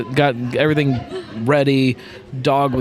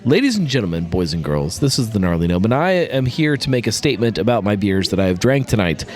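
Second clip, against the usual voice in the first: mock formal speech; 2 semitones lower than usual. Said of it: "Here is my statement".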